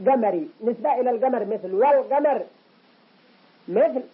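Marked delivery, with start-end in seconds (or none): 1.7-2.4 "والقمر" as wal-qamar with a sounded l; clear lam. Shown as a demonstration. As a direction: pronounce the l fully in "والقمر". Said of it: "إظهار". (إظهار لام "والقمر")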